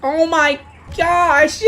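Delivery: slow, drawn-out exclamation of amazement; astonished, savouring every word; amazed. Real, not acted. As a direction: stretch out GOSH in disbelief. Amazed at the tank.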